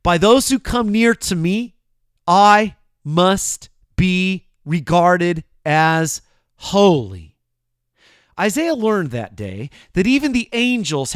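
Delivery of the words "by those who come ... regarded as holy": slow, weighty, louder declaration; a hint of God's commanding word; solemn divine voice. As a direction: proclaim it slowly and gravely. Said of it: "what God warned about".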